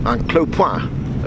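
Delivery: "un clopoint" said slowly in Norman French; French pronunciation. Shown as a demonstration. Narrator quoting the local French saying, "un clopoint" said slowly in French. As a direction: give "un clopoint" a careful slow French sound. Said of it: "as they say across the way".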